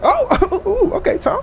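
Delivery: high-pitched imitation of a flustered host; mock uneasy laugh. Oprah fends off a touchy Tom, high and flustered. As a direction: giggle it high, fending him off.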